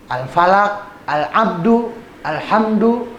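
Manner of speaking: Al-Falaq, Al-Abdu, Alhamdu with a sounded l, next letter undoubled; no tasdid. Shown as a demonstration. Teacher listing examples, clearly sounded l, no doubling. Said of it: "nggak ada tasdidnya".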